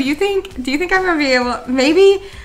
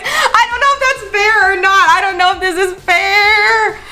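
giggling cheekily; 6 semitones higher than usual. Real, not acted. Cheekily asking for more.

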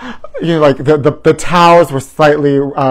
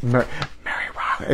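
stuttered eerie whisper of the name; 4 semitones lower, 13 dB quieter than usual. Retold or imitated. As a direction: breathe the name out like the trailer. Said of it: "And she just whispers".

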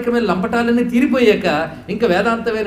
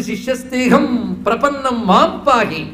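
surrendering plea; 4 semitones higher, 3 dB louder than usual. Retold or imitated. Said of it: "అని ప్రపన్నుడై".

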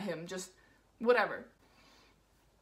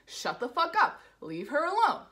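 higher, emphatic telling-off; imitated angry defence; 4 semitones higher, 3 dB louder than usual. Cousin defending her from the man, imitated anger. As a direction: firmly warn him off, retold.

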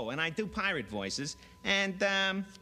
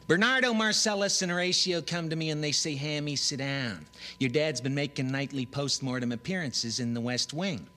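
hipster Hamlet; 3 dB louder than usual. Acted. Hipster Hamlet monologue routine.

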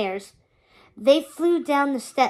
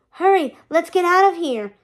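urgent shout; 6 semitones higher, 7 dB louder than usual. Acted. Escaping the demons, urgent call.

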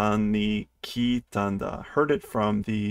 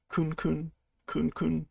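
sniffing the air; 4 semitones higher, 6 dB quieter than usual. Acted. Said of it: "Sniff sniff".

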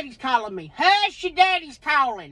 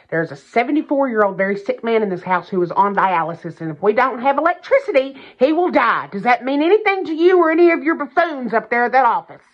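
angry; 3 semitones lower, 5 dB louder, faster than usual. Acted. Yelling at power company on phone.

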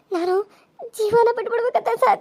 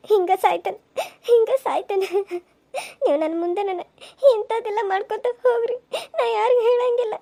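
frightened crying; 2 semitones higher than usual. Acted. Threatened woman crying, afraid.

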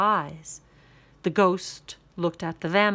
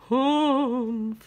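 ghost humph; 5 semitones higher, 6 dB louder than usual. Acted. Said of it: "said the ghost".

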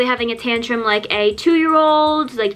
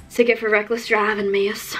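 hammed-up policeman handing out a ticket; exaggerated cop voice. Cop handing a ticket to teen driver, exaggerated officer voice. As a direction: put on a mock officer voice. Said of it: "He did not say it like that".

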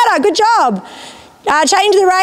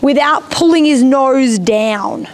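inner thought; 2 semitones lower, slower than usual. Shown as a demonstration. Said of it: "So you have to think".

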